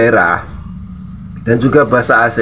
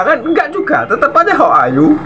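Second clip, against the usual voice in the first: high, laughing delivery; 13 semitones higher than usual. Real, not acted. Mocking wrong English, laughing. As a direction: giggle through it.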